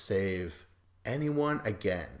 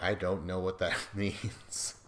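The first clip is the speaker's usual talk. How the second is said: confused, laughing through the last word; puzzled with laugh; 3 semitones lower, 4 dB quieter than usual. Retold or imitated. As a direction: imitate the host baffled and chuckling. Miz confused by hand signal.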